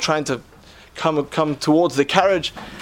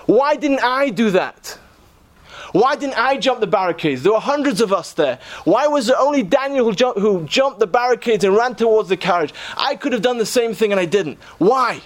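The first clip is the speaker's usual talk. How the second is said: tearful self-reproach; 5 semitones higher than usual. Retold or imitated. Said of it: "burst into tears".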